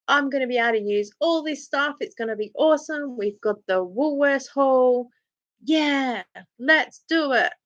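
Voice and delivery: imitating your own upbeat optimism; retold enthusiasm. Retold keen announcement of challenge.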